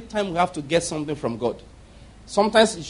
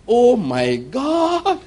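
excited Lord; 6 semitones higher, much slower than usual. Acted. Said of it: "The Lord was excited".

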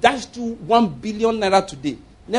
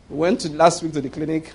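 mock foreigner announcement; 4 semitones lower than usual. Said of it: "Oyibo people, they come and announce".

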